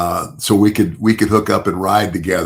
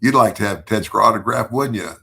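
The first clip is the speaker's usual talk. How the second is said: calling out; 3 semitones higher, 3 dB louder than usual. Retold or imitated. Calling out to Mel.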